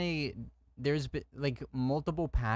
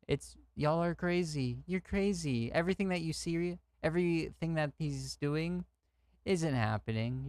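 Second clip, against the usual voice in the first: higher-pitched imitation of deniers; mocking dismissal; 4 semitones higher than usual. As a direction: mimic someone gaslighting, mockingly. Mimics deniers dismissing everything.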